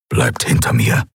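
low, breathy rasping growl. A narrator's reading. Keruk warns the crew to stay behind him, low growl. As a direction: growl it deep under your breath. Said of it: "knurrte Keruk".

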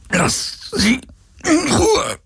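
high, strained cry; pained desperate cry; shouting while wounded. A narrator's reading. Wounded hero pleads for her.

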